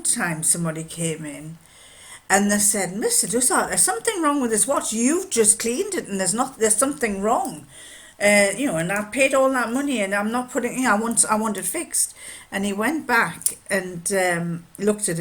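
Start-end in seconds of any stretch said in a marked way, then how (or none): 3.0-12.1 mildly indignant, higher voice; indignant complaint. Retold or imitated. Customer demanding the watchmaker fix it, mild indignation. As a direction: protest as a put-out customer.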